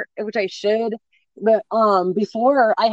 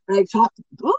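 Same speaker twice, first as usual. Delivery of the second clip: burp breaking into the words; talking while burping; faster than usual. Real, not acted. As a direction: speak through a burp. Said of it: "excuse me, I'm burping".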